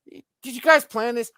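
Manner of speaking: high, loud, incredulous question; high-pitched retold indignation; mock accusation. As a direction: imitate an aggrieved coworker, voice shooting up.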